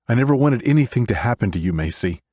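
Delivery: loud, high, fast desperate cry. Acted. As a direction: cry it out in anguish. Desperate plea to ghost.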